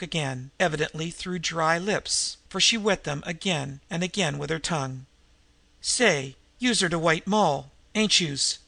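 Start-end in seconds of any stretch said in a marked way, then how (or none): 5.8-8.6 tough street woman. Acted. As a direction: probe her in a gangster's slang.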